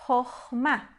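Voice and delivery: "Chokhmah" slowly as khokh-mah; demonstrated reading. Shown as a demonstration. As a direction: sound out "Chokhmah", O then final A. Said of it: "nós temos". (pronúncia didática de "Chokhmah", sílaba por sílaba)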